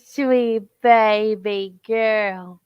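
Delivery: cooing at puppy. Real, not acted.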